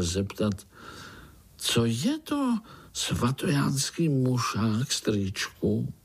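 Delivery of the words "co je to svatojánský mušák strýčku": put-on high, slow childlike voice; a curious little one daring to ask; lightly voiced eager child; small spider's question. Little spider asks boldly.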